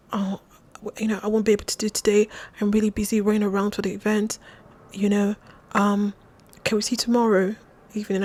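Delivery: lightly mimicked proper English accent, quick and soft. Retelling how he cancelled today, light proper English accent. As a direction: imitate his hurried excuse in a proper English accent. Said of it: "very proper English accent".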